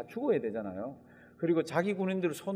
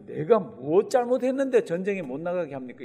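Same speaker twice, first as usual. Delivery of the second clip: indignant protest; 5 dB louder than usual. Retold or imitated. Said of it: "뭐라 그러죠?".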